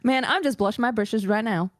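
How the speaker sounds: folksy Southern belle banter. Acted. Friend answering in kind after saying hers is worse, Southern Belle. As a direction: put on a playful Southern belle. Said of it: "Southern Belle better than I do".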